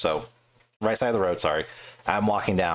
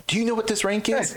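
indignant officer. Retold or imitated. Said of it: "officer demanding".

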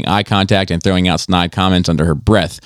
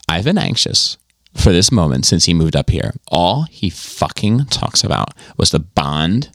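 lightly voiced contrite woman, halting pauses; acted apology; 3 semitones lower than usual. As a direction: play a reluctant confession, subdued and halting.

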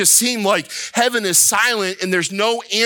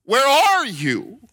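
high, drawn-out mock shout; crying out to God; 7 semitones higher, slower than usual. Believer demanding God show himself, high calling-out. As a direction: stretch "are" high, as if calling up to heaven. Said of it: "more of a shouting at God".

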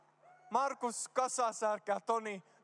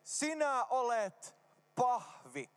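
slow say-after-me; 4 semitones higher, much slower than usual. Shown as a demonstration. Toistattaa lausetta yleisöllä.

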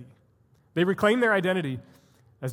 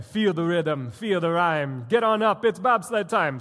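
put-on a clumsy Jamaican accent on the chant; badly mimicked Jamaican lilt; 4 dB louder than usual. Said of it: "I just murdered your accent".

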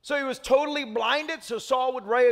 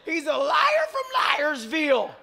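indignant. Retold or imitated. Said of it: "You'd all walk away and be like".

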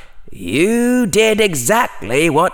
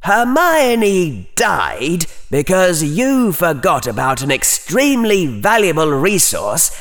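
coldly; 10 semitones higher than usual. A narrator's reading. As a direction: lecture him with icy scorn. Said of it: "said coldly".

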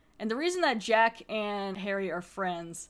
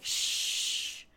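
shushing. Retold or imitated. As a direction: hush them with a breathy shh. Cynthia hushes everyone.

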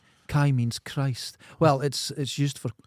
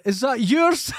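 shouted question; 9 semitones higher, 4 dB louder, slower than usual. Retold or imitated. Imitating his line about cockroach.

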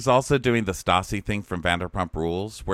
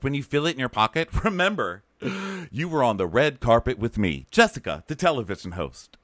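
higher, theatrical sign-off; mock TV host; 4 semitones higher than usual. Imitating a TV host giving a keepsake, mock theatrical. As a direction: present yourself grandly, punching the name. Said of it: "She's like".

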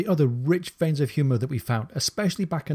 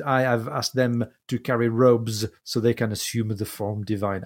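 put-on French accent. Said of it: "I'm adding the accent".

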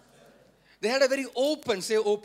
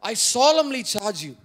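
firm charge, building to loud; fearless solemn charge; 6 dB louder than usual. Retold or imitated. Paul to Timothy without fear of offending, solemn and forceful. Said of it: "Paul could speak in this manner without the fear of".

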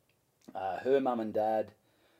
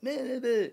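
mock nonsense noise; 14 semitones higher, 4 dB louder than usual. Mimics his own failed one-liners.

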